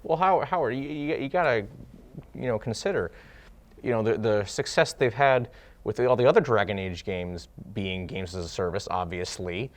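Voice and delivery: mock-serious sarcastic defense; deadpan sarcasm, pretending to mean it. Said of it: "That was sarcasm".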